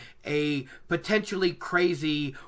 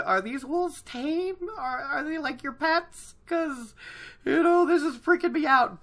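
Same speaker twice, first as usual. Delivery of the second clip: high-pitched nervous questioning, acted; Egwene; 11 semitones higher than usual. Egwene asking the old man about wolves, acted nervous. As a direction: play a rattled companion, pitched way up. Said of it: "Egwene is the nervous one".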